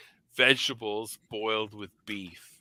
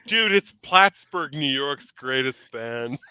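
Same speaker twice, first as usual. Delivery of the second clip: 1 mock hype; 2 semitones higher, 5 dB louder, slower than usual. Real, not acted. Hyping a favourite band.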